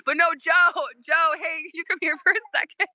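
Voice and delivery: eager. Retold or imitated. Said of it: "I was like".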